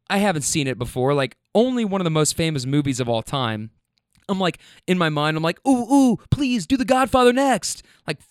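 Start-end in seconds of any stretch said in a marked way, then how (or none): 5.7-7.8 high, loud fake excitement; mock eagerness. Driver silently mocking her movie synopses, hammed-up eager plea. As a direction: beg sarcastically like an overeager fan. Sarcastic inner plea to rider.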